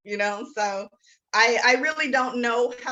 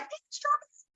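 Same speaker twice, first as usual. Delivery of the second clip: very high, playful Southern hey strawberries; flirty Southern accent, pitched way up; teasing Southern charm; hot Southern drawl; 4 dB quieter than usual. Retold or imitated. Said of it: "I want a Southern accent, make it hot".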